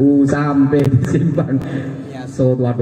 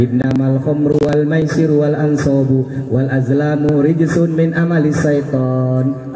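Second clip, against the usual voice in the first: Quran recitation; slower than usual. Acted. Quotes a Quran verse.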